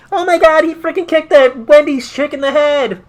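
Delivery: high, loud hammed-up horror; mock traumatized. Imagined kid shocked by a wrestling kick, mock panic. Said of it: "freaking crying their eyes out".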